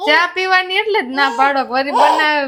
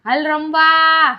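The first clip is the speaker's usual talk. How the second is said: calling out; 2 semitones higher, much slower than usual. Real, not acted. Calling Ojas to come play.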